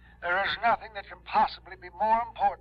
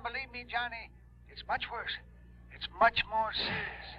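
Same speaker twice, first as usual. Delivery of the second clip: hushed plea; 6 dB quieter than usual. Acted. Old man pleads, hushed.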